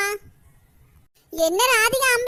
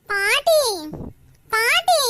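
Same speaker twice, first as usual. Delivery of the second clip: calling out; much slower than usual. Acted. Child calling out to grandmother.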